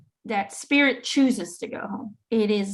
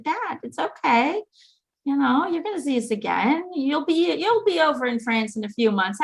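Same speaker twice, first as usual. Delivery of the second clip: reassuring; 5 semitones higher than usual. Retold or imitated. Daughter comforting her bawling dad at the door, reassuring. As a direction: gently imitate soothing an upset parent.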